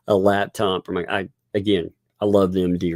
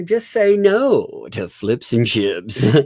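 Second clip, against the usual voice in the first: mock slogan; 3 semitones higher, 4 dB louder, much slower than usual. Slogan in put-on voice.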